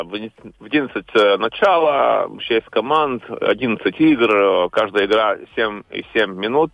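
Russian with a foreign accent; non-native Russian speaker; english accent russian. Real, not acted. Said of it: "Извините за мой русский".

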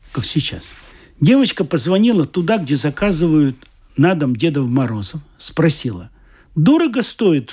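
storyteller voicing each figure; lightly voiced characters in a told story; story narration. A narrator's reading. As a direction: read it like a Christmas tale to adults. Reads a story aloud.

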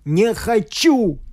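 slow, high cry of helpless anger; powerless rage. Acted. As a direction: drag out the words in impotent fury. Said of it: "стукнул он кулаком в бессильной злобе".

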